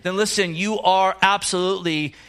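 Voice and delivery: preaching to the congregation, pitch lifted; rising sermon. Acted. Preacher urging the congregation to accept mercy, fervent preaching. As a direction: build the sermon with growing conviction. Preaching Paul's testimony, voice raised.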